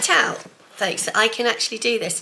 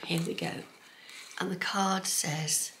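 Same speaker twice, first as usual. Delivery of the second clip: whisper; 2 semitones lower, 8 dB quieter than usual. Real, not acted. Revealing the card to viewers, whispered. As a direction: hush it as you reveal.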